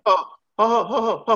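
high ho-ho laughter; mocking laugh. Real, not acted. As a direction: laugh it off knowingly. Laughing at the question.

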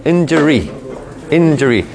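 "injury" as "en-jer-ee", carefully modelled; injury with odd E. Shown as a demonstration. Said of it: "medio rara".

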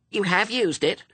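put-on very high, indignant little-girl retort; snapping. A narrator's reading. Little sister contradicts Pepper, snapping. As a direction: snap back as an affronted small child. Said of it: "snapped her sister".

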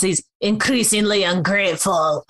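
hammed-up, badly faked Quebecois accent; mock Quebecois accent. Retelling Sergio's response to co-hosts, mock Quebecois accent. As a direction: put on a silly French-Canadian accent. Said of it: "Is that Quebecois enough for you?".

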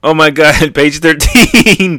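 thrilled reader outburst; real excitement. Real, not acted. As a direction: burst out amazed, stretching the end. Reacting to the shocking page.

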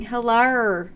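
attempted Aussie hello, drawn-out ending; Australian accent. Shown as a demonstration. Podcast host recalls practicing an accent, amateur Australian accent. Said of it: "practicing my Australian accent again".

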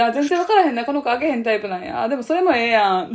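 loud eager Osaka auntie; loud nosy osaka auntie. Retold or imitated. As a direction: demand gossip eagerly. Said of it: "っつって".

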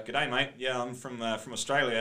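light mock Australian accent, breezy; Aussie accent. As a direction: pass yourself off as Australian with a light Aussie twang. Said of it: "definitely hear an Aussie accent there".

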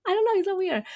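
giggly, high laughing voice. Real, not acted. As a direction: laugh through the words. Laughing at her own daydreaming.

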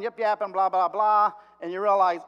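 ordinary talk

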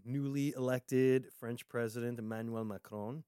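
put-on light French accent on the name. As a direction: says Macron the French way. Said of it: "did I do the whole French accent there?".

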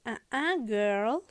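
lightly acted sassy refusal; sassy Clara. Clara stops Heidi from leaving, playful sass. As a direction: cut her off with mock sass. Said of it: "Clara le dice".

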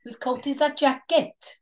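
mock Welsh accent on a stock phrase; light imitation of a Welsh accent. Shown as a demonstration. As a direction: put on playful Welsh. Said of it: "Can you do Welsh?".

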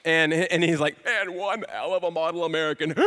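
rapid, breathless list; all in one breath. Retold or imitated. Ace reciting Finkle's history to the dad: rapid breathless list. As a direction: rattle it off without stopping. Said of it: "it's all in one breath".

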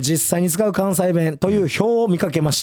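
measured on-air reading of a listener's letter; radio mail read. Acted. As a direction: read the mail out evenly and formally. (ラジオのお便りを読み上げる口調)

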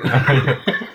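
chirpy, squeaky dolphin-like giggle; dolphin laugh. Real, not acted. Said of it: "Suara lumba-lumba ya". (tawa cempreng seperti lumba-lumba)

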